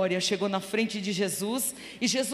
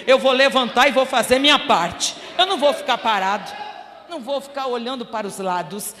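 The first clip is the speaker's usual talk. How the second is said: grito decidido; 3 semitones higher, 7 dB louder than usual. Acted. Cego grita que vai levantar.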